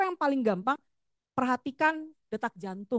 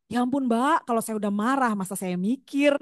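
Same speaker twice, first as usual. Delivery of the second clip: louder mock protest of a fed-up parent; louder, playfully exasperated objection; 6 dB louder than usual. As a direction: imitate an incredulous parent asking the teacher. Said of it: "saya sering nih dapat pertanyaan dari ibu-ibu".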